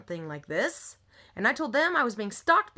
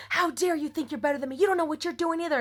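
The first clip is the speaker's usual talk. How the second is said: higher-pitched retold outburst; mock angry screaming; 5 semitones higher, faster than usual. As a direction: act out her indignant outburst, pitched up. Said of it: "she flipped, screaming".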